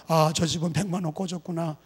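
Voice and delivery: muttering neighbor. Pretend. Neighbor overhearing, voiced.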